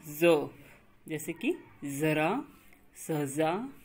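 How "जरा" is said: जरा said as zara with a z sound; slow zara, buzz the ज as z; za with nukta. Shown as a demonstration. Teacher demonstrating the nukta word to students, z sound. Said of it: "ज को हम थोड़ा सा जोर दे करके बोलते हैं".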